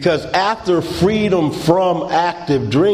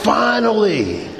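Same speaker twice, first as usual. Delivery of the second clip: mock tearful relief; 5 semitones higher than usual. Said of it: "she's crying".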